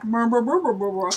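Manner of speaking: put-on mumbled burbling of chattering kids; mock kid jabbering; imitated kids' chatter. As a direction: babble nonsense like noisy kids. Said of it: "you'd hear the kids being like".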